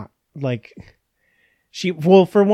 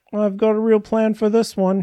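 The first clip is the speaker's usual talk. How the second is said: higher, sly scheming voice; scheming Bickerstaff; 8 semitones higher than usual. Retold or imitated. Imagining Bickerstaff carving his own tomb warning, sly and gleeful. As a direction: play it like a gleeful plotter. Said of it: "was Bickerstaff just like".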